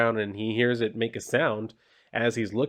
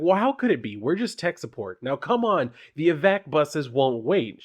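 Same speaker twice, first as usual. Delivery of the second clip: higher, pleading hurry; urgent coworker; 5 semitones higher than usual. Acted. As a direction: coax her out the door. Morgan voiced in comic reading.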